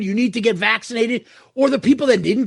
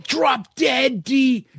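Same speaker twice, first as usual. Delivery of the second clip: raised, jeering mock comment; mock angry commenter; 4 semitones higher than usual. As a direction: spit it out like an online troll. Reading out hateful comments.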